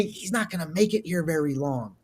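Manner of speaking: imitating a confidential whisper, low and hushed; retold whisper. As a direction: drop right down as if passing on a secret. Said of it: "someone whispers to me".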